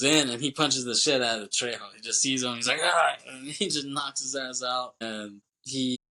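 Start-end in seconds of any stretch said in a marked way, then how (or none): 2.8-3.1 short imitated yell, louder and higher; mock attack yell. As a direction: let out a quick attacking "ah". Acting out Poe lunging at Trejo.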